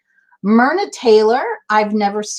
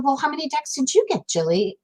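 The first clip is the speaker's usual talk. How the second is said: lightly imitated British voice, higher and quick; British accent; 4 semitones higher, 5 dB quieter, faster than usual. Host quoting Sandra asking about decks, mock British voice. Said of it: "In her British voice".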